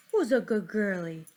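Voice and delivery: a hint of dad doing dog-talk; lightly put-on dad voice, praising the dog. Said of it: "in my dad voice".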